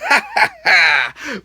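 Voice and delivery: forced, showy cackle; imitated laugh. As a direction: imitate a wrestler's gloating laugh. Imitates Rollins' laugh he likes.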